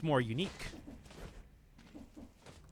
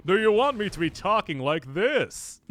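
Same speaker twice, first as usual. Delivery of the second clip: louder, higher put-on voice; put-on attractive voice; 5 semitones higher, 7 dB louder than usual. Shown as a demonstration. Streamer mockingly obliging a viewer who wants a more attractive voice, put-on voice. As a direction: ham up a supposedly attractive voice. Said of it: "make your mo-, voice more attractive".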